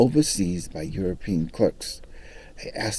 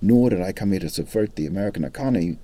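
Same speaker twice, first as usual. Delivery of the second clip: academic answer. Retold or imitated. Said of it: "answered in an academic fashion".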